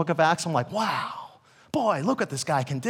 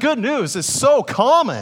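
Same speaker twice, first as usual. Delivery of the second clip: loud, drawn-out, sarcastic tone; 4 semitones higher, 6 dB louder than usual. Joking with the congregation about always encouraging news: sarcastic tone. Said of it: "that's sarcasm".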